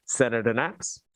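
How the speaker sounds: talking through a rubber mask; muffled voice inside a mask. Real, not acted. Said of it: "You're gonna have to take the mask off".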